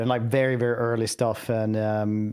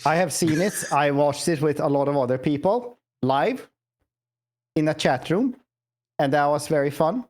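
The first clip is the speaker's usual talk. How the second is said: put-on Scandinavian accent. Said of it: "are you gonna keep this up for the full thing".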